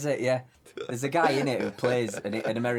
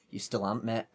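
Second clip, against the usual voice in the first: retorting. Retold or imitated. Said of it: "and I'm like".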